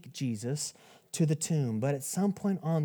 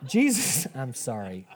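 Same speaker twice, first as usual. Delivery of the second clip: laughing; 4 semitones lower than usual. Real, not acted. Cracks up at own joke.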